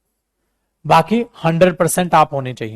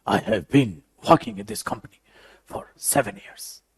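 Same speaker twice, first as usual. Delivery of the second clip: mock breathy drawl; much slower than usual. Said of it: "So ये नहीं लोगे".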